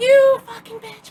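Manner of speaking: very high, shrill, loud crazed screaming. Retelling a bar fight where a girl on the mic screams: imitating someone screaming. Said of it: "screaming in the mic".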